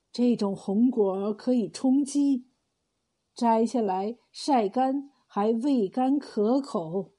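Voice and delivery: put-on slow, gentle old man from a dream; a hint of the ghostly elder, slow and kind; slow dream voice of the dead old man; lightly voiced dream message.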